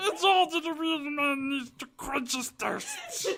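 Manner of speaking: Gollum voice. Shown as a demonstration. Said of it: "read something in his Gollum voice".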